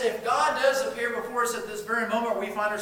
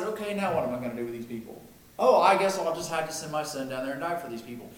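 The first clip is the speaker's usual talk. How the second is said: mock casual God; 4 semitones lower, faster than usual. Preacher mocking a wrong idea of God, casual and offhand. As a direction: lightly play God as careless and improvising. God imagined making a late plan.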